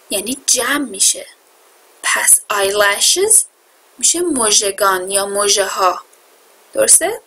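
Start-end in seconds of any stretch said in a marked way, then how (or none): 2.5-3.4 eyelashes said slowly, the final es clearly sounded; eyelashes with the plural s. Shown as a demonstration. Teacher showing students the plural ending of eyelashes. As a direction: stretch out eyelashes so the ending s is heard.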